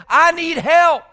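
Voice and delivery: loud, high cry for help. Acted. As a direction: call out to God as if drowning. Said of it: "he cries out to the Lord".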